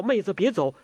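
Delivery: high-pitched, urgent call to stay; calling after her. A narrator's reading. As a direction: call her back as she leaves. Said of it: "完颜康叫".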